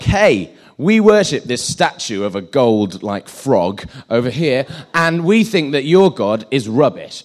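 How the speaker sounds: loud, lightly acted taunt; mock crowd challenge. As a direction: call out like a boastful playground crowd. Playground crowd challenges a believer.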